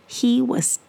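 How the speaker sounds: high slow whisper. A narrator's reading. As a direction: make it sound tiny. Tiny size, whispered high.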